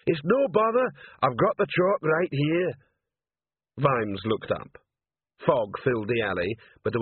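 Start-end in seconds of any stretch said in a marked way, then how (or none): 0.1-2.7 high, earnest troll voice, raised; a big dim troll, eager to help; troll Detritus. A narrator's reading. Troll sergeant offering Vimes the chalk, eagerly. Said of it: "Detritus speaking".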